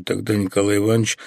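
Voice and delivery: ordinary delivery, nothing marked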